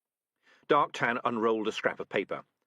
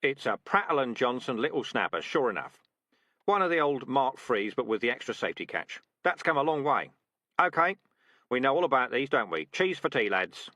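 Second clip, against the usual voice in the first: brisk, louder drill sergeant rat; gruff rat sergeant; 3 semitones higher, 4 dB louder than usual. Acted. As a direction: bark it like a tough old trainer. Dark Tan speaking to trainees.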